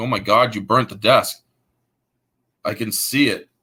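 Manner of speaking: put-on, desperate actor voice. Retelling a scene, voicing Jim Caviezel's character with mock desperation. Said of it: "the desperation in Jim Caviezel's voice".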